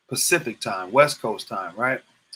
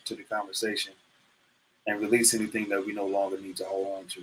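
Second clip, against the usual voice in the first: calm breathing coach voice; guided breathing. Acted. Leads a breathing exercise.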